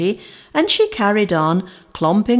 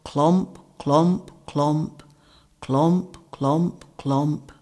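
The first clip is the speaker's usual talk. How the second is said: fading sad plod; 2 semitones lower, 3 dB quieter, much slower than usual. A narrator's reading. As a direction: let the steps fade away glumly. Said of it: "She just plodded along".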